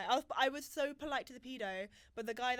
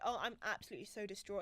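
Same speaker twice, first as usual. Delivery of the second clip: sarcastic; 4 semitones lower than usual. Retold or imitated. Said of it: "I was trying to be sarcastic".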